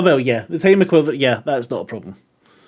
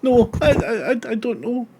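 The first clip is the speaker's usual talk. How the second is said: put-on higher, stammering servant girl; flustered maid; 7 semitones higher than usual. Maid answering Kathy, flustered and stammering. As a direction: stumble over it, frightened.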